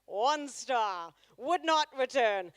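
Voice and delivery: a lightly voiced posh snob listing complaints; wife's snobby review voice. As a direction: sniff out each complaint like a fussy critic. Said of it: "So she'll continue to sound like that".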